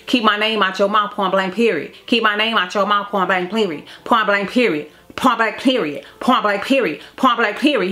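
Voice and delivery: lightly acted repetitive insistence; imitating son arguing. Son arguing with mother in his mind, mildly imitated insistence. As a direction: repeat it like a stuck retort, lightly imitated. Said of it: "he was arguing with me in his mind".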